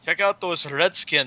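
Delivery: badly faked British accent, closer to Scottish; half-hearted mock Scottish accent. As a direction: repeat a poor Scottish-sounding impression on request. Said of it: "It was a Scottish one".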